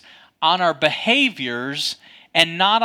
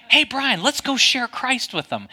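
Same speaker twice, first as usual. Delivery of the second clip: lightly voiced cheerful call, higher pitch; untroubled father-in-law; 7 semitones higher than usual. Father-in-law calling his angry son-in-law, untroubled higher voice. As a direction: call out in a higher voice, not upset. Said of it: "he's not upset by any of this".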